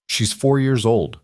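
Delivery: slow, careful and measured. Acted. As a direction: pick each word slowly and carefully. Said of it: "Lily said carefully".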